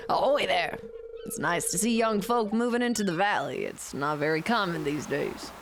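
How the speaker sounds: put-on easygoing old fisherman telling his haul; old fisherman Willy. Voices Willy again.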